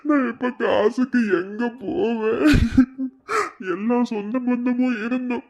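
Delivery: tearful, breaking voice; a desperate father sobbing out his prayer; crying. Acted. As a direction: weep while pleading to God. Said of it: "செலியா, அழுகுறியா?".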